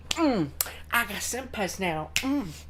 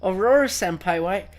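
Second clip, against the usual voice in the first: overacted anime dub; 3 semitones lower, slower than usual. Mock-scandalized anime schoolgirl act.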